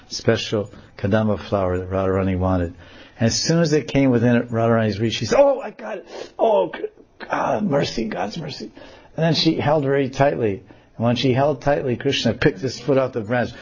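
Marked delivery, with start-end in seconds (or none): 5.4-8.7 put-on high, happy girl voice; high relieved girl cry; delighted girl. Radharani grabs the flower.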